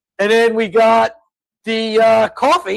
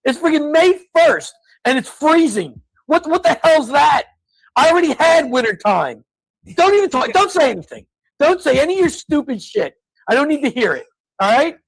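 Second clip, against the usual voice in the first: exasperated rant; 5 semitones higher than usual. Real, not acted. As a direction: vent to Gene about the freezing May. Ranting about cold May weather.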